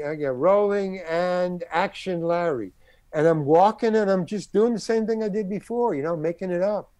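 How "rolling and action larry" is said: slow, drawn-out call to roll; mock on-set call. Director to camera and actor, slow mock call. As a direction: stretch it out like a director starting a take. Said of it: "he yells to the camera".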